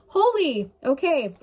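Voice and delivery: overwhelmed, voice jumps high; high emotional exclamation. Real, not acted. Tarot reader to viewer, moved, high startled exclaim. Overcome by emotion during reading.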